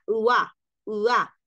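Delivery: "ua" as one gliding syllable; ua sound. Shown as a demonstration. Teacher showing how the ending seems, isolated glide. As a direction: isolate "ua" from bonsoir, said twice. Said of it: "pareciera como un".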